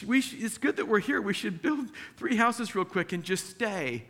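high, quick, eager blurting; excited, hurried suggestion; excited Peter. Acted. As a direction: blurt it out like an overexcited disciple. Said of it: "He's so excited, didn't know what to say".

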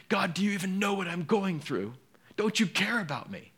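a doubting believer pleading with God; pleading prayer. Pretend. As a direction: ask God as if feeling abandoned.

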